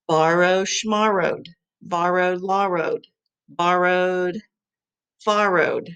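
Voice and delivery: "borrowed" alternated with made-up rhymes like "schmarrowed" and "farrowed"; rhyming demo. Shown as a demonstration. Teacher modelling rhymes of borrowed for the class. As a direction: swap the first sound of "borrowed" each time. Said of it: "It's rhyming".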